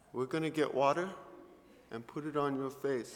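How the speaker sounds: soft, measured, careful phrases; gentle instruction. Retold or imitated. Host mom gets up to fetch water, gently instructing. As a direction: imitate a mother calmly taking charge.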